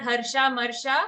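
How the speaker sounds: हर्षामर्षा with both "sha" vowels long; हर्षामर्षा ending in long "shaa"; mispronounced long ending. Shown as a demonstration. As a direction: quickly say हर्षामर्षा, lengthening the final a. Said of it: "okay, not".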